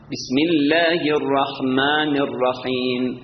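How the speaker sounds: slow chant with a thin L in الله; light L in Allah. Shown as a demonstration. Teacher correcting the mistake, chanted light الله. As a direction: keep الله light and الرحمن open-vowelled. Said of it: "نمیگیم بسم الله الرحمن".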